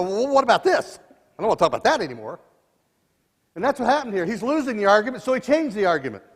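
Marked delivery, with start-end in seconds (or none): 0.0-2.4 retold dodge. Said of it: "I go".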